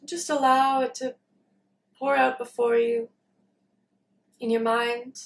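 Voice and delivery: calm meditation guidance with long pauses; unhurried, leaving long silences between phrases; guided meditation. Real, not acted. Leads a meditation.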